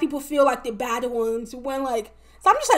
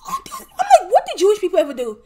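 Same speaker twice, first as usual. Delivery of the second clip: incredulous outburst; 6 semitones higher, 5 dB louder than usual. Real, not acted. Ranting to viewers about Jewish people, high incredulous outburst. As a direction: voice jumps high in disbelief.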